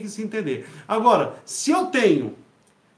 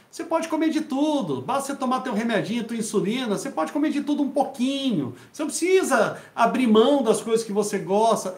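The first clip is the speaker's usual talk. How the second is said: mocking doctors' advice; 3 semitones higher than usual. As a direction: parrot the doctors lightly. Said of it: "Médicos dizem".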